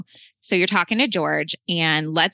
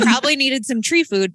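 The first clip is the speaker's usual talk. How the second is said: laughing; 7 semitones higher, 4 dB louder than usual. Real, not acted.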